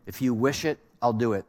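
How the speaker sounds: soft, devoted hush of a lover; a light hint of the hero's tender vow; quietly promising, a touch of romance; tender movie lover. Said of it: "it might sound like this".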